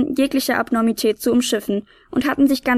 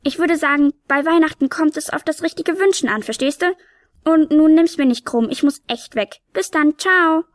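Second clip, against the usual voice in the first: higher, breezy little sprite in a rush; tiny hurried helper; 4 semitones higher than usual. Acted. Tiny helper hurries off on Nikolaus day, higher and breezy. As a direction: brush him off cheerfully, she must go.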